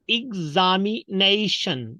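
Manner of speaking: EXAMINATION spaced, opening IG-za; correct pronunciation. Shown as a demonstration. Teacher introduces examination, spaced out with IG. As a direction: break up EXAMINATION, IG-za-mi-NAY-shun. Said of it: "not examination".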